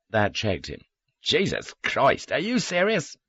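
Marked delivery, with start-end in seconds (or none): 1.2-3.2 high, drawn-out disbelief; slow, rising incredulity; incredulous. A narrator's reading. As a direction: stretch it out, pitched up in astonishment. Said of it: "I understood his incredulity".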